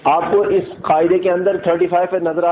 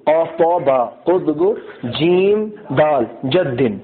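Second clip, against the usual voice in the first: slow letter recital; 2 semitones lower, slower than usual. Shown as a demonstration. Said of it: "دیکھو ان کا مجموعہ".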